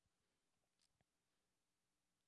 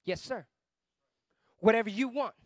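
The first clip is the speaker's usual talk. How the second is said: submissive reply; 2 semitones lower than usual. Acted. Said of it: "And you say".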